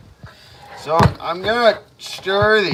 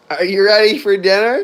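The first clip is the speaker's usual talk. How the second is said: yelling across the room; 3 semitones higher, 4 dB louder than usual. Real, not acted. Calling pet to dinner.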